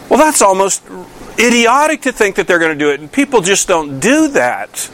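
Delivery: normal talking voice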